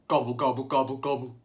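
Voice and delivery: gobbling like a turkey; turkey gobble. Shown as a demonstration. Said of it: "this is how a turkey gobbles".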